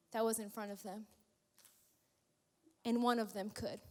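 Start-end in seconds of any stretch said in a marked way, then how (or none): none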